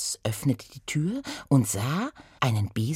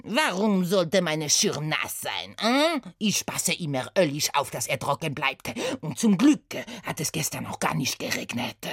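Satie mit französischem Akzent, empört; französischer Akzent. Acted. (Satie verteidigt seinen Schirm, französischer Akzent)

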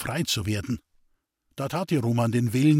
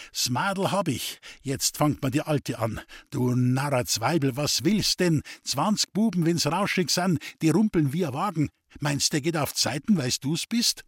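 angry; 3 semitones higher than usual. Acted. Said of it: "fuhr Roman wütend auf".

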